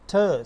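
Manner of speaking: "th" as a breath-puffed t; aspirated t. Shown as a demonstration. Teacher modelling the sound for students, "th" as aspirated t. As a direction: say "th" as ठ, t plus a puff. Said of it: "यहाँ पे ये aspirated है".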